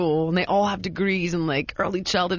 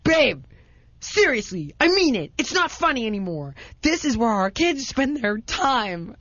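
wife insisting at the school meeting, high and urgent; pleading wife; 5 semitones higher than usual. Retold or imitated. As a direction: beg her partner to take it seriously. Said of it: "Heidi's like".

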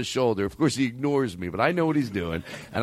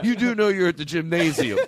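higher-pitched comic impression, half laughing; Jimmy Pardo; 4 semitones higher than usual. Host quoting comedian at the gym, laughing impression. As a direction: replay a comedian's gym line, amused. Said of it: "Picture Jimmy Pardo".

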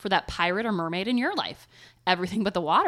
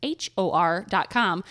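spelling it out. Shown as a demonstration. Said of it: "spelling anchor is harder than it looks".

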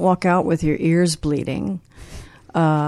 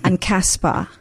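put-on lightly done football thug accent; a hint of a British hooligan; British street accent. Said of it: "five great British accents".

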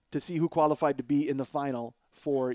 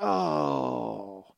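disgusted groan; 3 semitones lower than usual. Retold or imitated. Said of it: "everybody goes".

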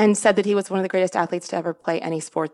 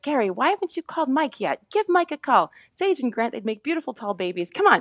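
lightly voiced insistent mom, pitched up; mother; 4 semitones higher than usual. Mother urging dad to call Mike about a match, lightly imitated pushy mom. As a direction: nag lightly in a mother's higher voice. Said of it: "she's like".

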